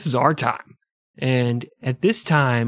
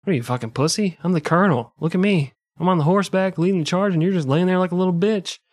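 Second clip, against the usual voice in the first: mock colonel; 6 semitones higher than usual. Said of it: "he's like".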